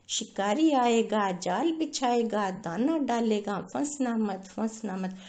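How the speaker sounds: mildly shouted parrot chant; parrots shouting. Acted. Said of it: "बहुत तेज चिल्लाने लगे".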